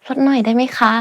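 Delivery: sweet, cute ลดหน่อยได้ไหมคะ; cute haggling. Shown as a demonstration. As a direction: ask cutely for a discount. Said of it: "Make it a bit cuter".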